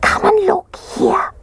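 put-on high whispered baby bear, slow; slow high cub whisper; squeaky whisper. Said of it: "he whispered".

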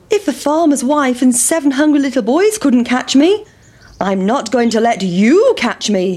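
high, teasing runaway voice; pancake boasting. Acted. Pancake boasting to the boys, high teasing voice. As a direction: gloat as you roll away.

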